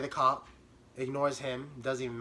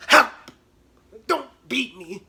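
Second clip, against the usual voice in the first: high mock cry for help; hammed-up pleading; mock fear; 7 semitones higher, 8 dB louder than usual. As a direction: cower like a scared kid. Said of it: "cowering from sister".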